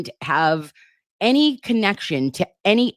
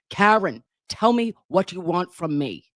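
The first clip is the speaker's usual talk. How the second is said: pushy texter. Retold or imitated. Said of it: "how I picture him typing".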